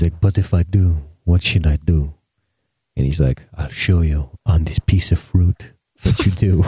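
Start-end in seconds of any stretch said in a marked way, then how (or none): 0.2-2.1 puzzled mock Jamaican; Jamaican accent. Soldier asking his bros for advice, mock Jamaican accent. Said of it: "I don't know why he's talking Jamaican". 3.6-6.6 instructive mock Jamaican; Jamaican accent. Campfire bro teaching the soldier, mock Jamaican accent. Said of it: "I don't know why he's talking Jamaican".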